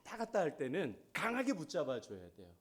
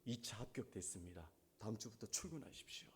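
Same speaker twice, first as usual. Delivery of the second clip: company caller; 7 semitones lower, 11 dB quieter than usual. Retold or imitated. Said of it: "회사에서 전화가 온 거야".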